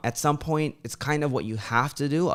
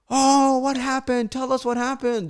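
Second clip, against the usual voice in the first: a hint of eager ladies begging to know; curious ladies; 11 semitones higher than usual. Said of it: "They're, like, screaming".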